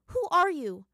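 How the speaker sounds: high, loud, uneasy demand; slightly fearful. Acted. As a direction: challenge the stranger with a touch of fear. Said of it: "slight bit of fear edging its way into her voice".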